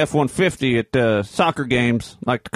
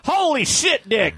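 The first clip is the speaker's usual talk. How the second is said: mock surprise; 10 semitones higher, slower than usual. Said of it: "what would you say if you, uh, were surprised".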